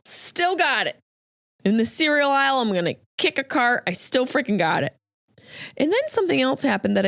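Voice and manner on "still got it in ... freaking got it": cocky triumph. Retold or imitated. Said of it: "Felt like Will Ferrell at the end of Old School".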